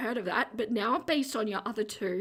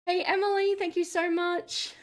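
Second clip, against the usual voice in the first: excited; 8 semitones higher than usual. Real, not acted. Greeting chat viewer brightly.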